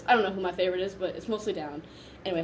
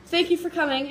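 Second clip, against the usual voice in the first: high, louder mock-cheerful thanks; cheery imitation; 10 semitones higher, 6 dB louder than usual. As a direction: imitate his chirpy sign-off, pitched way up. Quoting Brendan thanking her.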